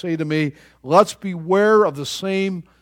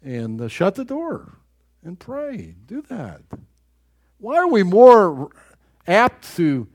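usual speaking voice

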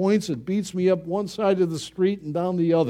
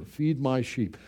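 soft command; 5 semitones lower, 7 dB quieter than usual. Retold or imitated. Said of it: "he restores him".

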